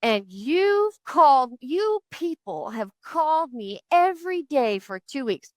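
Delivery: mock angry rant. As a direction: mimic the caller going off at her, slowly. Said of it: "he goes off on me".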